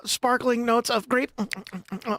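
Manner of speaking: wine sommelier. Retold or imitated. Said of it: "he's like".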